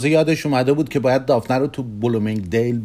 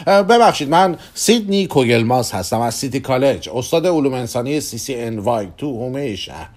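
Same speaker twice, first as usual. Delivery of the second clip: flustered introduction; 3 semitones higher, 4 dB louder than usual. Acted. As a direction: blurt the apology, then recite credentials. Flustered stranger introduces himself.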